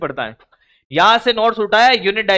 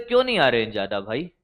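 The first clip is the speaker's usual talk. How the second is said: "क्यों" rising in a fast, much softer, lower voice; quick hushed question; 9 semitones lower, 7 dB quieter, faster than usual. Retold or imitated. Teacher retelling his question to a student, quick and hushed. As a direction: toss off "क्यों नहीं आ रहे हैं ज्यादा भाई" quickly and quietly under the breath. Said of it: "मैंने कहा".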